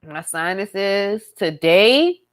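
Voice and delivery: stuffy congested voice; blocked nose. Real, not acted. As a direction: talk through a blocked nose. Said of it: "I can't breathe through my nose".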